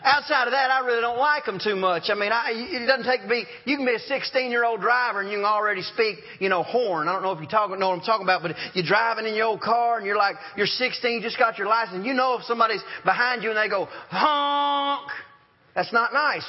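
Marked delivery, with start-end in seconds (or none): 0.0-0.7 reset the line with more push; firmer restart. Real, not acted. Repeats the phrase to regain footing. 14.1-15.1 mock honk. Rude driver honking from behind.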